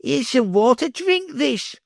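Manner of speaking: put-on boy jeering the beggar, lightly bellowed; bellowing. A narrator's reading. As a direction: bellow it at him with glee. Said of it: "Uggug bellowed".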